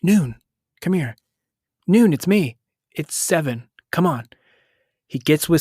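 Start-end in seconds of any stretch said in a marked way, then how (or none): 0.0-4.3 put-on lightly done calm American accent, pitched up; a soothing American accent coaxing him over. A rescuer coaxing the hunted boy to safety in a mild, calming American accent. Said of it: "a calming American accent voice".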